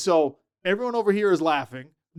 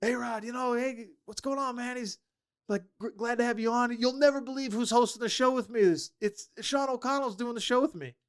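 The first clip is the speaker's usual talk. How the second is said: high, breezy on-air greeting; hearty radio host; 5 semitones higher, 5 dB quieter than usual. Retold or imitated. Host Hans greeting his college teammate on air, lightly voiced chummy radio host. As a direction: play the chummy host welcoming an old buddy.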